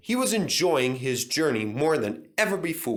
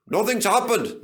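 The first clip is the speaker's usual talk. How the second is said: gleeful, loud, high; chortling; 9 semitones higher, 4 dB louder than usual. A narrator's reading. Duncan gloating near the station, chortling. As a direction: crow with glee. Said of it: "he chortled".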